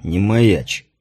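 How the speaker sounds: low muttered grumble; grumbled. A narrator's reading. Drunk commander grumbling at his guest, low. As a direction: wave him down with a grumble. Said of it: "проворчал Гронер".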